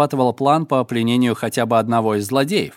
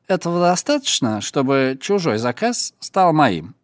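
put-on drunk voice. Yakhman feigns drunkenness.

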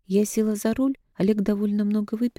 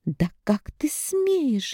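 outraged; 7 semitones higher, much slower than usual. A narrator's reading. Mother outraged, lunges.

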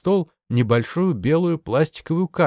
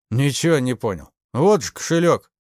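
usual speaking voice

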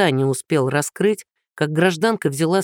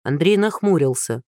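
ordinary delivery

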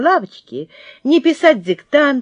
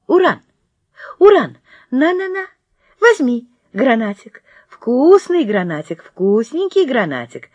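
coaxing puppy; 2 semitones higher than usual. Acted. Girl coaxing puppy with treat.

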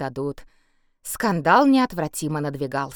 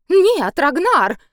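high, loud desperate cry; exclaiming; 11 semitones higher, 7 dB louder, much slower than usual. A narrator's reading. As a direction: cry out his name in panic. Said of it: "воскликнула она".

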